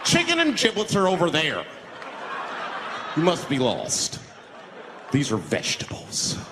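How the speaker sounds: snooty white shopper. Retold or imitated. Shopper mocks at grocery.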